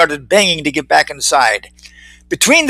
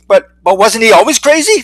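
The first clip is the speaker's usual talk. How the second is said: hesitant, higher-pitched doubt; doubtful question; 5 semitones higher, 3 dB louder than usual. A narrator's reading. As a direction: ask it unsurely, stumbling at the start. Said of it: "Leslie asked doubtfully".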